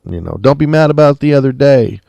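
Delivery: mock calling out. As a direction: imitate a sheriff calling to someone out back. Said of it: "yelling back there".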